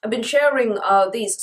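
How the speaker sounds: talking around a lozenge; mouth full. Real, not acted. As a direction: lozenge in mouth, slightly thick speech. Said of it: "Sorry, I've got a lozenge in my mouth".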